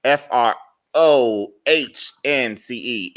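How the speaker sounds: F R O H N C E spelled slowly, one letter at a time. Shown as a demonstration. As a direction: spell F R O H N C E out slow and deliberate. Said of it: "it's pronounced".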